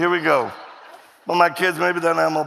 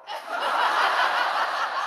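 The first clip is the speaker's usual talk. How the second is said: breathy, high giggle; quick voiceless giggle; high airy laugh; 3 dB quieter than usual. Real, not acted. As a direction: laugh at yourself. Laughs at his rebuke.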